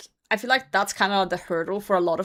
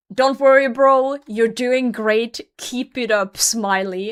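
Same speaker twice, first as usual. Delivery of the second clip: put-on patronizing, pitying, condescending poor-little-soul tone; 3 semitones higher, 7 dB louder than usual. Retelling what a stranger said to them: imitating a pitying tone. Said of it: "the way he said it was like".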